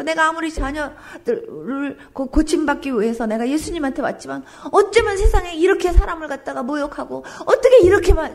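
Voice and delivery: resentful complaint. Acted. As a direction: let the insult sting as she lashes back. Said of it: "원망하는 마음으로".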